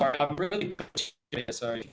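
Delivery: glitchy call audio breaking up; wobbly warbling call audio. Real, not acted. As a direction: voice cutting out on a bad connection. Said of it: "you're glitching out".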